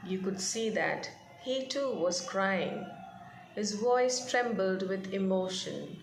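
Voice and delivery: reading the passage aloud, gently paced; measured read-aloud narration; story reading. A narrator's reading. Teacher reads story passage aloud.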